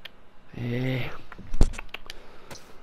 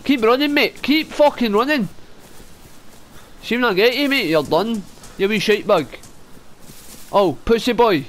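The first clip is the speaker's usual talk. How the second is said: taunting yell; 3 semitones higher than usual. Real, not acted. Taunting a fleeing enemy.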